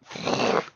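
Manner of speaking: noisy rushing rustle sound; harsh whoosh of tent fabric; imitated tent rustle. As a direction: mouth the noise of a rustling tent. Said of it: "it's like, really loud, obnoxious".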